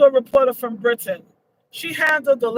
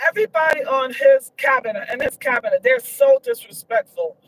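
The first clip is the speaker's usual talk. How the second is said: indignant outburst; 5 semitones higher than usual. Real, not acted. Indignant rant about cabinet.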